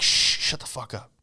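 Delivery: urgent hushing whisper. Retold or imitated. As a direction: hiss it so nobody hears. Hushing a fellow North Korean.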